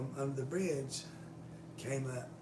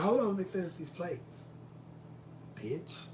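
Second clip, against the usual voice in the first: mock sass; 3 semitones higher than usual. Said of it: "I didn't say it like that".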